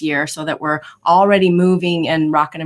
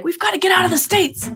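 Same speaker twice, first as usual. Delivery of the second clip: imitating her youngest; 12 semitones higher than usual. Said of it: "my youngest is like".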